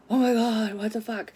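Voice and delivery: shocked exclamation, easing off after the first burst; retold shock. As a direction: relive the horrified reaction. Retells own shock at the blood.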